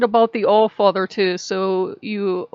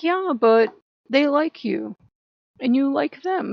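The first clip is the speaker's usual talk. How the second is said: slow, higher, teasing fatherly voice; imitating her father; 5 semitones higher than usual. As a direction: play the amused dad who won't budge. Her father Ogu answering her.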